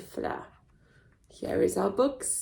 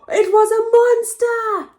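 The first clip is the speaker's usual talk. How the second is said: much higher and louder exclaim; loud excited reveal; dramatic reveal; 14 semitones higher, 9 dB louder than usual. Acted. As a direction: burst out with the scary surprise. Big reveal in story.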